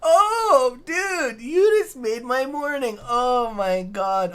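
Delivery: very high, loud, drawn-out cries of helpless laughter, slowly coming down; laughing to tears. Real, not acted. Streamer thanking a viewer whose joke made the morning, laughing to tears. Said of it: "I got tears in my eyes".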